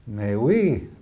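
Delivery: Mais oui, put-on surprise with a French lilt; mock astonishment. Elizabeth teases Helen with feigned astonishment. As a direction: play at being amazed. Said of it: "feigning astonishment".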